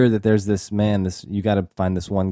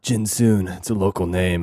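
imitating Bill Johnson; 3 semitones lower than usual. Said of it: "who only talks like this through the entire film".

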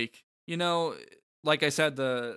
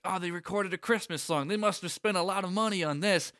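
lisping kid impression; 7 semitones higher than usual. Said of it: "Patrick doing this lisp impersonation of the kid".

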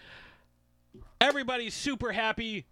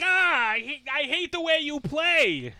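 loud, higher heckler yell; mock yell; 10 semitones higher, 6 dB louder than usual. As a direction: shout at Subban from the stands. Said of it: "I can yell at Subban and be like".

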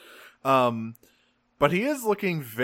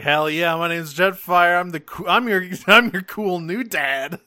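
cocky cool dad; 5 semitones higher, 6 dB louder than usual. Retold or imitated. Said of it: "He's like".

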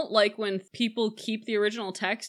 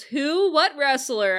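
higher and louder, breathless eagerness; eager Rosalind; 6 semitones higher, 5 dB louder, slower than usual. Retold or imitated. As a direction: pounce on the question. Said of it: "Rosalind goes".

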